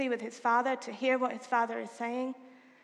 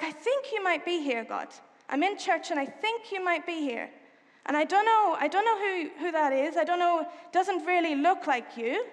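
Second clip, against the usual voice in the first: lightly acted, uncertain disciple, mostly raised voice; acting out Peter; 3 semitones higher than usual. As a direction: think aloud hesitantly, as if addressing God. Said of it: "I'm gonna try and be Peter".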